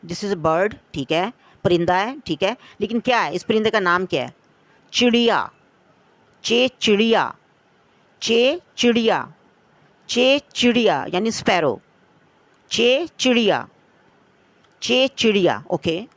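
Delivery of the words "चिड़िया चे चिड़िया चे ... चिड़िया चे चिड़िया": louder, stressing चे in चे चिड़िया; teacher calling चे चिड़िया loudly to young pupils; emphatic drill. Shown as a demonstration. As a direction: call out चे चिड़िया for the class to repeat. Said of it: "मेरे साथ आप लोगों ने दोहराया है".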